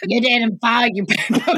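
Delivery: lightly voiced cartoon slug, through laughter; half-laughing character quote. Quoting Monsters, Inc to co-hosts, in a light slug voice. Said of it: "who was like".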